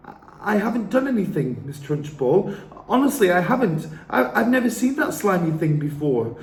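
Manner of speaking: put-on high, fast pleading child voice; pleading girl. A narrator's reading. Matilda pleading with Miss Trunchbull. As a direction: beg innocence, flustered.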